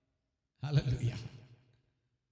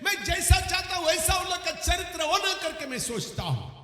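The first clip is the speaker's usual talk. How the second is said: forceful preaching; 8 semitones higher, 3 dB louder than usual. Acted. Preaches on loving correction.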